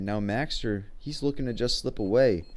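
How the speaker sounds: loud and high, then slowing down; excited shouting call. Acted. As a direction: yell it as time runs out. Play-by-play as the clock runs out.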